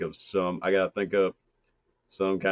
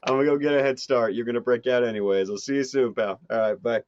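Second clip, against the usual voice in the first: normal Midwest guy; 4 semitones higher than usual. Acted. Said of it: "just a normal guy from the Midwest".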